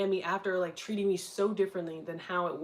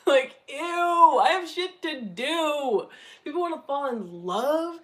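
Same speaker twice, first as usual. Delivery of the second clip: mock disgust; 7 semitones higher, 6 dB louder than usual. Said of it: "can't even say it's with a straight face".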